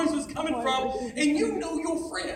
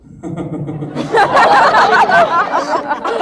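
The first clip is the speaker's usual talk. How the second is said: imitated deadpan stuttering laugh; creepy, blank chuckle impression; expressionless laugh; 4 semitones higher, 10 dB louder than usual. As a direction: laugh in even pulses with no feeling. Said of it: "no expression, nothing, just going".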